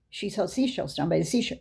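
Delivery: "She sells seashells" softly rattled off; quick tongue twister. Retold or imitated. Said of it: "Just say it three times really fast".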